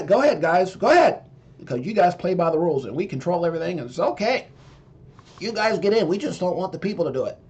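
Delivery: lightly voiced smug politician granting permission; mock a politician who says the rules are for you; a hint of a smug politician's voice. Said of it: "my politician voice".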